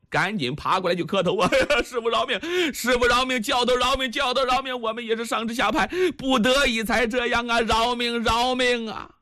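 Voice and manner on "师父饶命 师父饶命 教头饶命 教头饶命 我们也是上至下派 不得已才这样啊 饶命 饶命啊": higher, hurried grovelling pleas; cowardly guards pleading with the monk; begging for mercy. Acted. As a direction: babble for your life, kowtowing. Guards kowtowing, begging for life.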